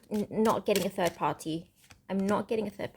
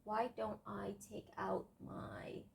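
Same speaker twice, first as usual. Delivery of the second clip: whisper; 16 dB quieter, slower than usual. Real, not acted. Playful aside fetching the timer.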